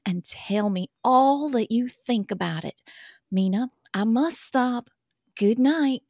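put-on reading a love letter in a light Southern accent. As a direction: read it as a swooning Southern girl. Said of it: "that accent".

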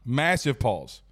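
talking with something in the throat; throat catch. Real, not acted. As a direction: speak past a lump in the throat. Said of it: "something caught in my throat".

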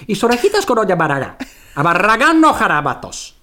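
high, exaggerated Spain Spanish gibberish; fake Spanish. Shown as a demonstration. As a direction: reel off made-up Spanish, building to a big high finish. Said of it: "speak fake Spanish right now?".

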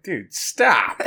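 mock annoyed at teammates; embarrassed protest. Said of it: "I'm like".

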